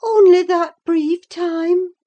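high, loud, incredulous question; disbelieving, voice pitched right up; astonished exclamation. A narrator's reading. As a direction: exclaim it in amazement. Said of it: "she exclaimed".

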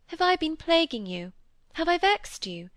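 high, anxious, tender questioning; murmured concern. A narrator's reading. Molly fears she has vexed Cynthia, high tender murmur. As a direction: ask pleadingly, pitched well up. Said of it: "she murmured".

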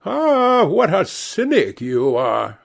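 high delighted cry on Ah; old lady crying out. A narrator's reading. Hostess scolding Lord Henry's cynicism, high mock-shocked cry. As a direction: gasp out Ah up high, mock scandalised. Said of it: "cried the old lady".

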